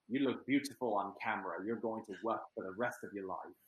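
put-on a mild British accent quoting a co-star. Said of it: "Doing my best British accent there".

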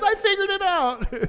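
high, far, mock bright announcement; mock triumphant Elle. Mocking Elle telling the men, high triumphant voice. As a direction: pitch it way up like a ditzy eureka.

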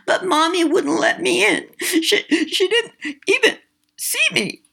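put-on very high, small child's voice with a lisp; a tiny lost girl, hurt and confused; lisping little girl. A narrator's reading. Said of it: "she lisped".

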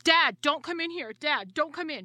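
acted-out urgent, repeated plea; retold freaking out. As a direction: imitate a flustered son holding off his dad. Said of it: "he's, like, freaking out".

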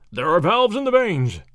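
a lightly voiced booming lecture line. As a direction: boom it out like a lecturer down the hall. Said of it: "a booming voice saying".

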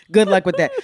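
loud sassy drag queen voice. Real, not acted. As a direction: lean into the drag queen sass. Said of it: "I kinda sound drag queenish".

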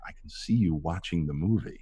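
hushed imitation of a discreet director; whispering. Director JJ quietly teasing a starstruck actor between takes, whispering. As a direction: murmur it low, just for the actor. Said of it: "he whispers to me".

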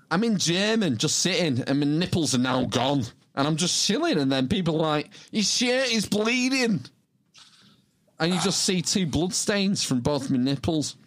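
lightly acted student voice; storytelling student. Telling what happened in German class, lightly acted student. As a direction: lightly act out the student's account. Reads quote as Liverpool student.

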